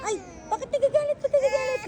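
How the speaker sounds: high, loud squeal; playful teasing. Real, not acted. Vlogger asking someone why they are angry, high loud teasing. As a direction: pitch it way up and tease loudly.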